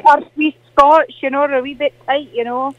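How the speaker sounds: a lightly put-on Scottish auntie, chatty and fond; Morag caller voice. Glasgow caller greets the radio host, in a lightly put-on Scottish auntie voice. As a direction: play the sweet old Glasgow lady caller.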